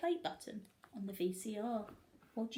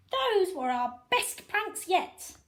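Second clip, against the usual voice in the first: giggling; 9 semitones higher, 7 dB louder, slower than usual. A narrator's reading. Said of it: "giggled Harold".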